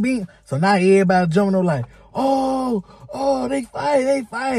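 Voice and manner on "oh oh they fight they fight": put-on much higher, hyped kids yelling about the fight; imitating excited kids. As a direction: squeal it like a cafeteria crowd. Imitating crowd seeing the fight.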